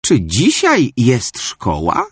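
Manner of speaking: put-on slow sleepy old lady; drawn-out grandma question. Grandmother asks from the window, slow old voice. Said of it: "zapytała starsza pani".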